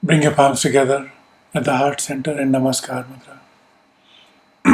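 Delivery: calm, measured meditation guidance; unhurried instructions with long pauses to let them settle; guided meditation. Real, not acted. Teacher settling a group into yoga nidra, calm guided meditation. Leads a seated breathing meditation.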